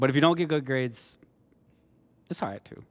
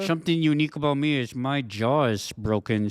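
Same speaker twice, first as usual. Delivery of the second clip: speaking through clenched teeth; words pushed past a wired jaw; jaw wired shut. Retold or imitated. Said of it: "that's why I'm talking like this".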